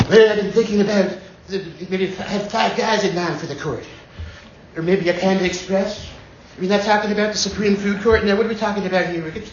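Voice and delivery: a light Trump impression, rambling. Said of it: "I think Trump is the Bunny Slope of impressions".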